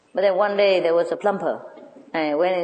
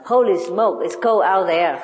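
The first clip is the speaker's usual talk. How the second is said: loud, chirpy parrot exclamation; a parrot greeting its owner home from work; 4 dB louder than usual. Retold or imitated. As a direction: squawk it like a pet bird at the door. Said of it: "he always greeted her like".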